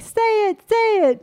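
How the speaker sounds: put-on high, eager kid-like urging; retold pleading. Kids begging mom to read the sign, pleading. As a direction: egg her on in a high mock plea.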